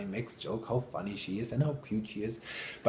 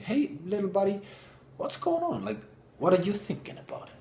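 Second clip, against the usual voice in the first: gentle mom voice; 8 semitones higher than usual. Retold or imitated. Mom gently asks her son.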